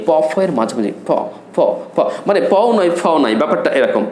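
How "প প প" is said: প with a light puff, halfway to ফ; প, between প and ফ, a little air through the lips. Shown as a demonstration. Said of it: "প ফ এর মাঝামাঝি একটু ঠোঁট দিয়ে". (প আর ফ এর মাঝামাঝি প)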